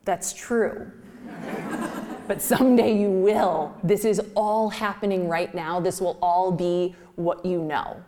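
a light hint of a fond father, chuckling; lightly voiced dad; dad, laughing gently. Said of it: "he would say".

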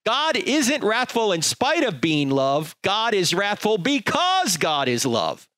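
emphatic second reading; slow emphatic reread. Shown as a demonstration. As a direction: read it again slowly so it sinks in. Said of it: "Let me read that again".

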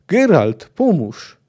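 acted battlefield shout; call for help. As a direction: call out for rescue in the fray. Comrade calls for help in battle.

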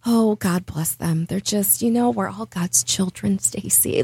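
a hint of a gentle churchgoing mom; imitating sweet mom. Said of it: "she's just silver lining all day".

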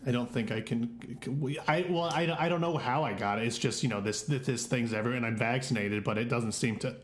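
weak put-on sick voice; faking being sick. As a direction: fake sick voice to boss. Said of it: "Are you faking sick right now?".

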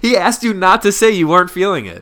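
high, loud cry through laughter; laughing disbelief. Acted. Friend pointing out the email blunder, laughing disbelief. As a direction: call out the blunder, cracking up.

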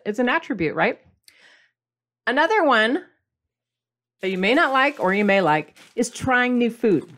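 normal talking voice

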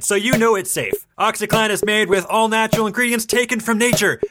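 lightly voiced cheesy ad announcer; infomercial. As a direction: sell it like a cheesy TV pitchman. On to our message from our sponsor.

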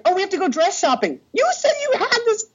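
very high, whiny bride voice. Retold or imitated. The bride insisting on dress shopping, very high and whiny. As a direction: whine it like a bride. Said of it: "she was like".

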